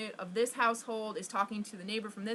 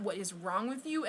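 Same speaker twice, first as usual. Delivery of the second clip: understated, softer retold scolding; retold appalled mother; 2 semitones lower, 5 dB quieter than usual. Mom scolds her child for speaking up, retold appalled scolding. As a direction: imitate mom's scolding, toned down. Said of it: "my mom was just appalled, and she was pissed at me".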